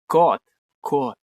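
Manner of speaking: loud call to the cat across the room. Real, not acted. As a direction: call the cat over by name. Calling the cat by name.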